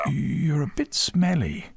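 put-on high, slow boy's voice; mouth-breathing boy. A narrator's reading. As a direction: say it as if avoiding a smell. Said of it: "breathing through his mouth".

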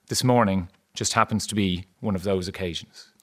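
measured storybook reading, letting the list fall; story narration. Acted. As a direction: read it aloud like the opening of a novel. Author reads from his book.

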